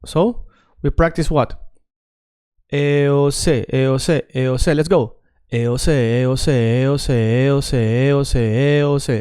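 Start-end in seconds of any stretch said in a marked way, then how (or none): 2.7-9.1 "eos" run together as one smooth chain of vowels; linked vowel drill. Shown as a demonstration. Teacher drilling students to sound good, smoothly linked. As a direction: chant "eos" with the vowels flowing into each other. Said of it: "I want you to sound good. So say".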